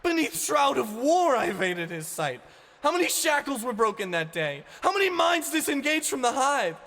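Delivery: very high, loud screamed rebuke; enraged shouting girl; furious scream. Acted. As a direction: scream it down at him. Ani's tirade at Ivan.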